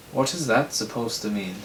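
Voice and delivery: lightly put-on Irish accent; a hint of Irish in a character voice; slight Irish twang. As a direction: say it with a mild Irish lilt. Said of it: "a slight Irish twang".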